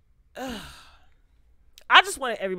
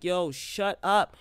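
pretend telling off; 4 dB louder than usual. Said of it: "ready for Twist to slap him".

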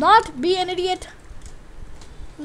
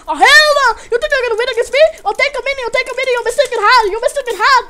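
higher, louder taunting; loud defiant taunt at the attacker; defiant shout; 6 semitones higher, 8 dB louder, faster than usual. Real, not acted.

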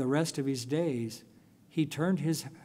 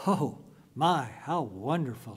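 exclaiming. Retold or imitated. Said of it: "she exclaimed".

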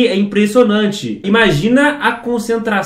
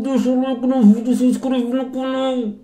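talking with mouth closed; wired jaw; 5 semitones higher, 3 dB quieter than usual. Shown as a demonstration. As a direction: speak through shut lips, jaw wired. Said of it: "Eu vou tentar falar alguma coisa aqui". (falando de boca fechada)

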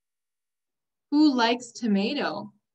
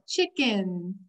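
smiling; 3 semitones lower than usual. Shown as a demonstration. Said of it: "you could kind of smile".

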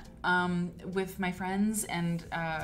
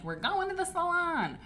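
high-pitched excited auntie announcement; 9 semitones higher than usual. Acted. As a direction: pretend to whisk a girl off for a treat. Imagined outing with young niece.

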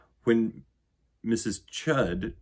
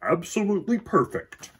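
doting father; 8 semitones higher, 5 dB louder than usual. Acted. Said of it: "said her father".

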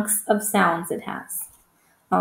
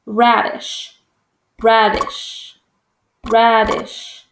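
stomped syllables; much slower than usual. Shown as a demonstration. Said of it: "We're gonna stomp it".

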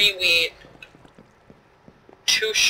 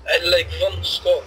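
put-on Russian accent; 5 dB louder than usual. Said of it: "you want me to do a Russian accent".

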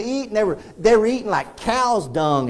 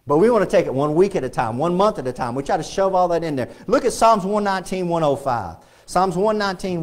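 ordinary talk

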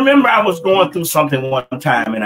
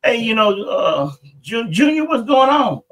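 a lightly voiced worried mother, higher; the mother pressing her son, a little higher; mother's voice; 5 semitones higher than usual. Mother questioning her son in story.

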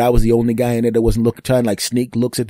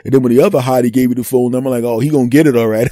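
louder hyped gloating; mock excited; 6 dB louder, faster than usual. Cheering himself on about the phone numbers, louder. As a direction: crow like a proud buddy. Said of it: "I was like".

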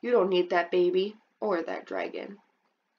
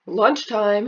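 dad calling out; 7 dB louder than usual. Acted. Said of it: "your dad will say".

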